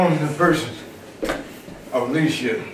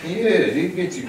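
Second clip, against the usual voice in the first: laughing; 5 semitones higher, slower than usual. Real, not acted. Laughing after big laugh.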